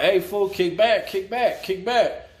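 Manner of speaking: backing off. Retold or imitated. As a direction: hand up, telling him to back off. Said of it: "he has his hand up, like".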